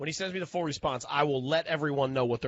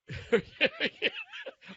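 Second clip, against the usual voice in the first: reverse sound. Real, not acted. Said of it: "you just making the reverse sound".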